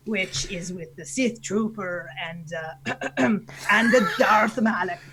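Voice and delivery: slow, hesitant pirate voice with throat clearing; pirate captain feeling for the voice; Canadian pirate. Acted. Naming the team before restarting, slow Canadian pirate voice. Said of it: "your Canadian pirate voice".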